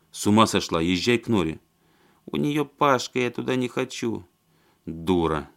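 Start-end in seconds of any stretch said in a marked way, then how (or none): 2.3-4.3 put-on drunk woman.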